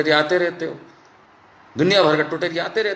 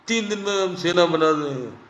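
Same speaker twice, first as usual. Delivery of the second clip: mocking Bhagwat. Mocking Bhagwat's three-day army boast.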